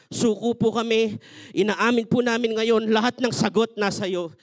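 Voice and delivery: fervent, pleading prayer voice; earnest prayer. Acted. Pastor leading the congregation in a surrender prayer, fervent.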